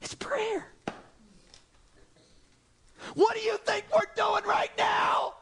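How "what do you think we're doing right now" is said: preacher's shout. Real, not acted. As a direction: call it out to the room. Challenging the congregation.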